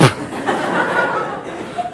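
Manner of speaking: very high, soft mock wail dying away; feeble trailing cry. Lost teenager's call for help fading out, weakly. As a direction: let the cry thin out to air. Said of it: "I cry out in my weak little sixteen-year-old voice".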